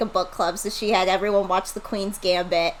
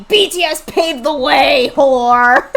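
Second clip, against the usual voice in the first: higher, loud hammed-up fan comment; mock fan shout; 4 semitones higher, 8 dB louder, slower than usual. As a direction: yell it like a spamming fan. Acting out spammed fan comments.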